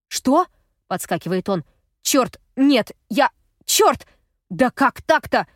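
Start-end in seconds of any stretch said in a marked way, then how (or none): 0.1-0.5 high, loud startled shout; shocked shout. A narrator's reading. Gaz jolts at hearing about the violins, high and loud. 2.0-5.5 high, loud frantic curses; panicked swearing. A narrator's reading. Gaz realises he left the violins on the roof, frantic and loud.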